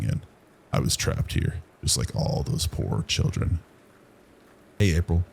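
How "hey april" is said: calling out. Acted. Zeke calls out.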